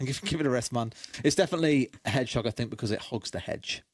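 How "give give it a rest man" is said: mock echo. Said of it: "echoing friend's line".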